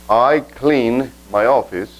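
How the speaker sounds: slow, careful English example; teacher modeling slowly; slow model sentence. Shown as a demonstration. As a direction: say it slowly so learners catch it. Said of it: "si acá le digo".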